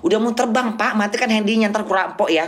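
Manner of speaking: half-joking scolding of the passenger; mock stern warning. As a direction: tell him off with a teasing edge. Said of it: "aku bilang". (menegur penumpang dengan nada bercanda)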